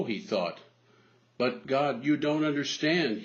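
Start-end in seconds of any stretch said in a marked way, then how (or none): 1.4-3.2 a half-hearted yell of protest, a little raised; mild yell. Acted. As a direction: protest up the cliff without full force. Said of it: "he yelled".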